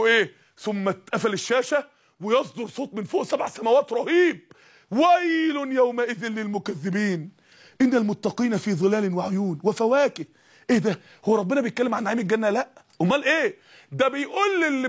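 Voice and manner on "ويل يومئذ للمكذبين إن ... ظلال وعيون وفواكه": measured Quranic chant; slow Quran recitation. Acted. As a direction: draw out the verse slowly and solemnly.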